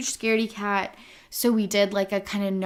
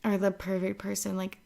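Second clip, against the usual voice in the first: softer, pleading, a bit pathetic; mock desperate plea; 5 dB quieter than usual. Asking the host to coach her, mock desperate and soft. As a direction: beg like a lost puppy, half joking. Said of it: "This got sad and desperate real quick".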